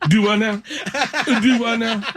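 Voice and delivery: exaggerated redneck twang; redneck accent. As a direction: tease with a high-pitched redneck impression. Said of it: "She's a redneck".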